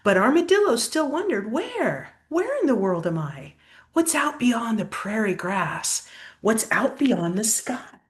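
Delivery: lively, sing-song storybook reading; picture-book story voice; reading to children. Acted. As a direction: read the rhyme aloud to a child. Reads picture book aloud.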